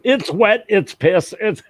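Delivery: high, urgent voice for a cat; panicking cat. Retold or imitated. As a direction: voice a frantic cat's thoughts. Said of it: "I'm sure in his mind was".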